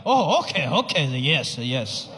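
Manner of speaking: fading, lightly voiced nodding dad; dad pretending. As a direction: fake understanding, trailing off. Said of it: "he was like".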